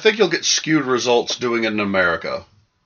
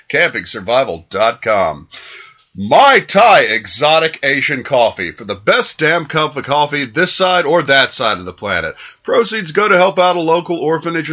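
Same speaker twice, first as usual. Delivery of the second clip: lively podcast ad read with big emphasized brand names; sponsor read. Acted. Reads the sponsor list.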